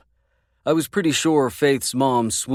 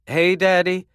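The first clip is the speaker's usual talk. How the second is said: calling out; 8 semitones higher, 4 dB louder than usual. A narrator's reading. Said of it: "Faith called".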